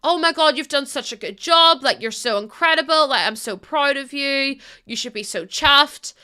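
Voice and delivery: mock gushing praise from a friend; proper enthusiastic. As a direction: lay on the enthusiasm. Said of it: "proper enthusiastic".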